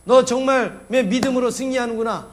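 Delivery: rising mock cheer from the witnesses. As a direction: cheer them on like a supporter in the stands. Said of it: "이러면서 우리를 막 응원하고 있습니다".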